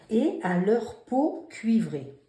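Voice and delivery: teacher rereading the dictation line; slow dictation read. Shown as a demonstration. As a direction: read it slowly and clearly to the class. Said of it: "Alors, hum".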